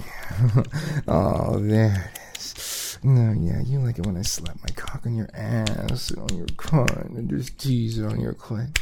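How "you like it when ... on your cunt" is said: whisper. Acted.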